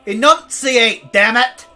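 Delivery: mock angry demand. Yelling at whisperer.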